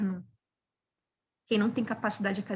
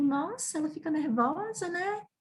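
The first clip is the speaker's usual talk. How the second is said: quoting the professor; 7 semitones higher, 4 dB quieter than usual. Retold or imitated. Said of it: "o professor assim".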